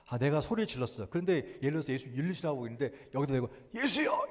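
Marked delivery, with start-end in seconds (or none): 3.8-4.3 high imagined cry to Jesus; a lightly voiced pleading call; mock call out. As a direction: call out 예수여 into the crowd, pitched up. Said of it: "이러면 얼마나 창피하".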